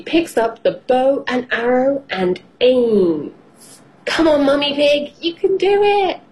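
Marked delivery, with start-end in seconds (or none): 4.0-6.2 high, eager encouragement; cheering on. A narrator's reading. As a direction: urge her on with rising pitch. Child cheers mother on.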